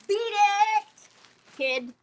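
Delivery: teasing high "beat it"; mock brush-off. Reading joke pins to viewers, mock shooing off. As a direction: shoo off an imaginary kid, playfully.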